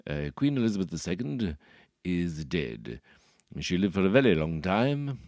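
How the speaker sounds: put-on lightly done plummy upper-class English accent; posh English. Comedian mimics the English ruling class, mildly posh. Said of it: "the ruling classes who talk like this".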